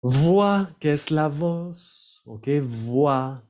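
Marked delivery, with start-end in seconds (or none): 0.0-0.8 "Voix" as "vwa", higher and louder; French pronunciation demo. Shown as a demonstration. Teacher introduces the word, "Voix" pronounced "vwa". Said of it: "la O I se pronuncia wa". 2.8-3.4 "Voix" as "vwa", x silent; oi in "Voix" glides as wa; French pronunciation demo. Shown as a demonstration. Teacher repeats for learners, "Voix" pronounced "vwa". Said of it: "la O I se pronuncia wa".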